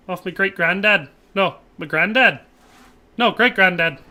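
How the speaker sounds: lightly put-on Irish lilt; Irish accent. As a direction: talk family history in mock Irish. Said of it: "thinking too much of the accent".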